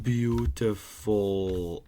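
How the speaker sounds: slow, savoured beautiful; drawn-out admiration. Acted. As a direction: stretch it out admiringly. Admiring finished tower.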